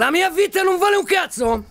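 slow, furious shout. Acted. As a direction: roar each word at him. Forcing hostage to repeat.

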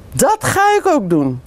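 put-on a high, eager child's call. A narrator's reading. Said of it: "roept Mick". (enthousiast roepend)

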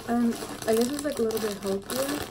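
speaking between bites; talking while chewing. Real, not acted. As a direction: mouth partly full of snack. Seen 0: Puts puff in mouth at -1; jaw and lips chew while talking.

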